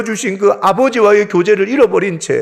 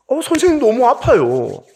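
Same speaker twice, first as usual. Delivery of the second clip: higher-pitched retold plea of a child; imitated pleading; 5 semitones higher than usual. Son begging the doctor during the needle test, imitated pleading. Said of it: "막 이러면서 비는 거예요".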